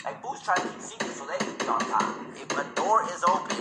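lightly put-on cholo, reading tips aloud; a homie sharing secret magazine tips. Cholo homie reading Fortnite tips to the squad, hushed.

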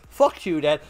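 salty shouting. Retold or imitated. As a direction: yell it at mum down the hall. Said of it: "I got salty".

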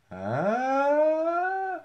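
long rising high-pitched "uhhh"; drawn-out joking squeal; mock high wail. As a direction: swoop up high and hold it. Joking outburst about trucks on fire.

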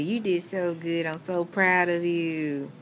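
slow tender praise; reassuring. Real, not acted. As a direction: soothe a groggy patient. Comforting patient after surgery.

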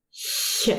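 Ch as a light palatal hiss; soft ch. Shown as a demonstration. Teacher showing learners ch after front vowels, soft hissed Ch. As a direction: hiss Ch forward, like H in "huge". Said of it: "we pronounce it".

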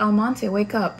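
gentle wake-up call in a mild imitation; super nicely. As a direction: chief being sweet at first. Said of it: "super nicely".

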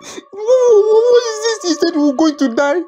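high, distressed pleading; alarmed, near-tearful questioning; panicked protest. Acted. Learns he is to die.

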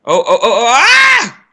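oh oh oh climbing into a high shriek; real panic as he slips; panicked cry. Real, not acted. Gamer about to fall off the pile, panicked cry. Nearly falling in game.

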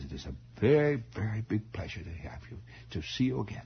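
put-on dignified old lady, light German accent; Aunt Teresa. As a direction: greet formally in softly German-tinged English. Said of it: "they all had this vague German accent".

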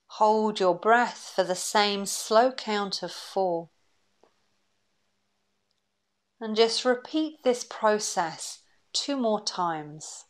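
calm, unhurried breathing-exercise voice; guided meditation. Acted. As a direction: guide them gently through each breath, leaving long pauses.

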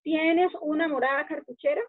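calco palabra por palabra del inglés; traducción literal. Shown as a demonstration. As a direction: lectura literal que suena rara. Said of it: "como si fuera en español". ("morada cartuchera", orden del inglés)

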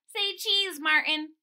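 high, loud, playful call; chirpy little photographer; cheerful child voice. Acted.

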